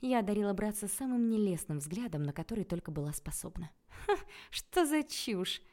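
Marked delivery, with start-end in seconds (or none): 3.9-5.6 high, slow words through gritted teeth. A narrator's reading. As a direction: force it out between clenched teeth. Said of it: "процедила я сквозь зубы".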